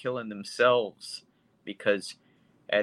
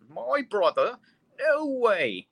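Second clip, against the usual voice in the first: much higher, incredulous gasp of a line; shocked disbelief; 11 semitones higher, slower than usual. Retold or imitated. Retelling film heroine hearing her brother died, much higher and stunned. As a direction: play the stunned sister hearing the news. Optometrist hears brother is dead.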